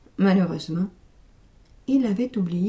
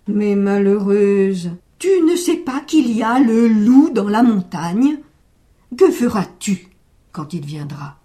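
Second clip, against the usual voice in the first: alarmed warning; 7 dB louder than usual. Acted. Old man warns of the wolf.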